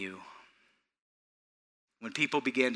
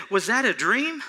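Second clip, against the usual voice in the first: raised-pitch self-questioning; retold puzzled wondering; 10 semitones higher, 5 dB louder than usual. Preacher recalls questioning his own dream, puzzled. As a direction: wonder aloud, high and incredulous. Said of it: "had to stop and say".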